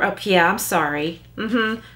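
dismissive, insincere apology; breezy sarcastic mm-hmm. Shown as a demonstration. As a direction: say sorry without meaning it. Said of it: "That tone is sarcasm".

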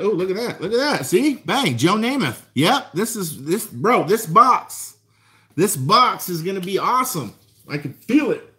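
rising thrill over a great find; real excitement, pitch up; hyped collector spotting a gem; excited. Real, not acted. Finds Joe Namath card in box.

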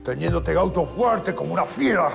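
gritos agudos de rabia contra los guardias; furia desatada. Acted. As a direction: estalla de furia y no se contiene. Preso furioso estalla contra todos. (grita furioso contra los gauchos)

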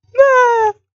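high, loud cry of alarm; sharp startled shout. Acted. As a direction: yell no in sudden fright. Sudden alarmed cry in scene.

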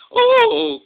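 very high, loud "oh"; crying out. A narrator's reading. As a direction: cry out in storybook alarm.

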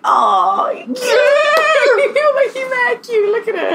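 very high, laughing coo; gushing squeal. Retold or imitated. Guest acting out looking up at host, high giddy gushing. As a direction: squeal it as if melting over someone cute. Acts out gushing at host's looks.

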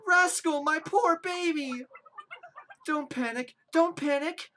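a hint of a frantic mother; distressed mother. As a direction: plead for help like a worried mother. Voicing distressed villager mother.

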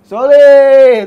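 "Solid" yelled high and loud with a falling end; shouted solid. Shown as a demonstration. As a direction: shout "Solid" like a team chant. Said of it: "nadanya gini".

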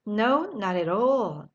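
very slow, drawn-out reply; slow model answer. Shown as a demonstration. Teacher modelling the answer very slowly. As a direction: stretch each word for learners. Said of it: "한번 다 같이 할까요".

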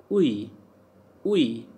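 "ui" glided as "wee"; French "ui" sound. Shown as a demonstration. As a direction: run "ui" into one syllable, like "wee". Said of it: "U I is pronounced as".

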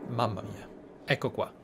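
normal talking voice

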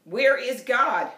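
slow, loud bellowed question; booming pastor bellows at the boy; bellowing pastor. Acted. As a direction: boom it out like a huge pastor.

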